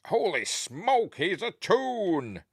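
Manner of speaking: high, slow astonished gasp of a line; mock shocked cry. Retelling the film, a high slow shocked cry. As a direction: act out the film's big reveal.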